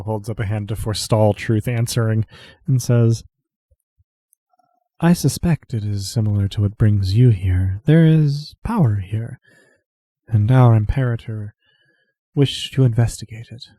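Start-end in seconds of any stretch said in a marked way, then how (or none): 5.0-13.7 Adaliova in character. Acted. GM voicing Adaliova.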